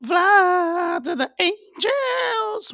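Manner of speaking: cracks way up, drawn out; voice cracking high. Real, not acted. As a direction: voice breaks into falsetto. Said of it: "my voice got fucked up".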